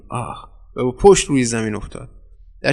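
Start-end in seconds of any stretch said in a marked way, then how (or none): 0.1-0.5 a short "ah" let out softly; soft pained groan. A narrator's reading. Attacker hit on the chin, groaning softly. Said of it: "آن دیگری نالید".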